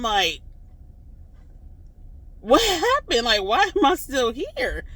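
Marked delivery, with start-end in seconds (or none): 2.4-4.8 loud, high-pitched mock outcry; retold panicked protest, drawn out at the end; distraught disbelief. Dreamer left behind with a stranger, distraught disbelief.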